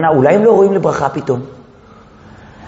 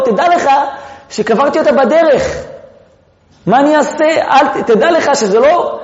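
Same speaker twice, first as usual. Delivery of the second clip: 1 apologetic Jacob; 5 semitones higher than usual. Acted. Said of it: "יעקב כביכול מתנצל ואומר לו".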